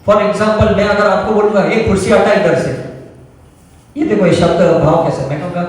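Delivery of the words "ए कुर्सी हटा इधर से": a lightly rude, bossy command to move the chair; rude order. Shown as a demonstration. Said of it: "दोनों same शब्द है कुर्सी, लेकिन मैंने बोला अलग तरीके से".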